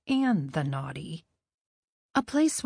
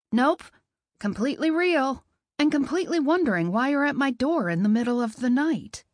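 sarcastic retort; 4 semitones higher than usual. Acted. Woman snaps back at stranger.

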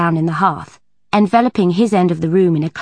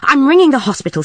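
controlled calm; 7 semitones higher, 5 dB louder than usual. A narrator's reading. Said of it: "in a voice of controlled calm".

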